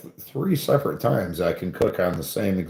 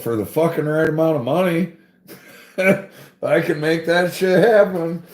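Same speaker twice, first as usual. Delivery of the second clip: laughing boast; 6 semitones higher, 3 dB louder than usual. Retold or imitated. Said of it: "I'm like".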